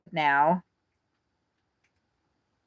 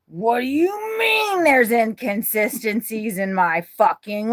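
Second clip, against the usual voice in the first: mock outraged self; 3 semitones higher, slower than usual. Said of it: "And I was like".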